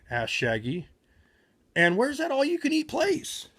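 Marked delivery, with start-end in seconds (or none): 1.7-3.5 hungry whine. Acted. Hungry Shaggy wondering aloud.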